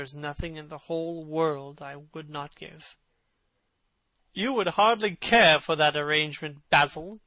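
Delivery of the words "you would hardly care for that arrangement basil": raised, louder voice; cried out. A narrator's reading. Lord Henry teases Basil, louder. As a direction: call it out across the studio. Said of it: "cried Lord Henry, laughing".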